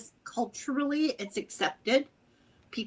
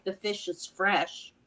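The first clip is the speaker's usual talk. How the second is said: Irish phrase; 3 semitones lower than usual. Shown as a demonstration. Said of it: "I can say things like".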